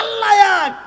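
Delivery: high, loud shout of faith; shouted cry. Acted. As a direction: cry it out defiantly.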